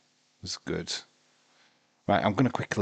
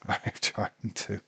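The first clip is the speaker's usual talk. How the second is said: slow, softer, laughed through; laughing whisper; 5 dB quieter than usual. Real, not acted. Sleepy fan answering himself, laughing softly. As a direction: giggle it out under your breath. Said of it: "Hang in there".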